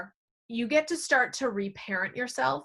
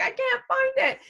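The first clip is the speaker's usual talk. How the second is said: frustrated exclamation; 14 semitones higher, 3 dB louder than usual. Retold or imitated. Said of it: "you're like".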